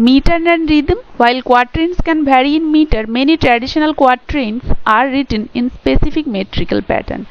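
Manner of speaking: reads English text very slowly, word by word; slow dictation reading. Shown as a demonstration. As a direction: dictate it slowly for students to copy. Reads English textbook definition aloud. (ধীরে ধীরে ডিক্টেশনের মতো পড়া)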